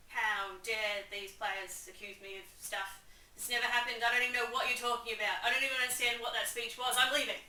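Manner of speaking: loud, offended bluster, hammed-up; mock indignant. Claudius storming off from the play, mock indignant. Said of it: "Claudius is all mad about it".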